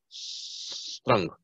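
strong whispered with a long hissing s, like a gas leak; hissed pronunciation. Shown as a demonstration. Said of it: "Como si tuviera una fuga de gas".

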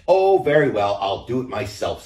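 loud, high sigh of giving in; exasperated hen. A narrator's reading. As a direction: give up with a huff. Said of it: "said the little red data hen".

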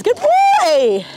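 high, drawn-out praise; praising the horse. Real, not acted. Trainer to her horse as he settles, praising.

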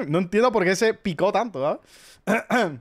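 laughing through the words; amused, giggling while speaking. Real, not acted. Laughing about the waiter who got offended.

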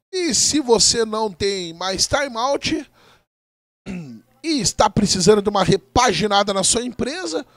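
quick, upbeat sponsor plug; ad read. Acted. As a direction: rattle off the ad brightly. Sponsor ad read mid-broadcast.

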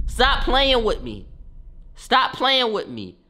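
high, slow taunting stop playing with me. Gloating at grandma after the elbow, slow high taunt. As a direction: drag it out to rub it in.

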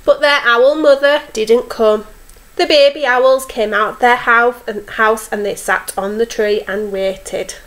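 expressive storyteller with lifted owl lines; story reading to children. A narrator's reading. Teacher reads owl story to young children, expressive storytelling. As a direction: read a picture book to little ones.

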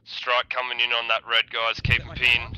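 shouted warning. Real, not acted. Warning team of incoming strike.

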